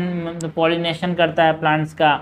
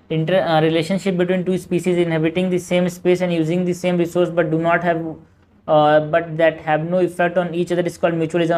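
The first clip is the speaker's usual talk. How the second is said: slow, even question reading; measured textbook read-aloud; much slower than usual. Acted. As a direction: read the exam question out slowly. Reading out a statement.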